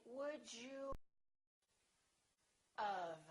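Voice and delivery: "Would you of" with have as "of"; reduced question. Shown as a demonstration. Teacher shows the reduced "Would you of". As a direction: say "of" in place of have. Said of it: "We say".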